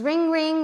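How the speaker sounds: phone ring. Retold or imitated. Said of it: "sound does the phone make?".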